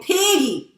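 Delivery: drawn-out PIGGY with a pitch swoop; "Piggy" as a squealed pet name; nickname said playfully. Retold or imitated. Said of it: "not Piggy".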